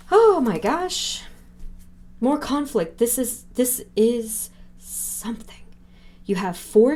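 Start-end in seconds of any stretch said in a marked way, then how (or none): 0.1-5.6 high, slow, drawn-out oh my gosh; shocked gasp. Real, not acted. Reader gasping at more conflict in the spread, shocked. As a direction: gasp at what the cards show.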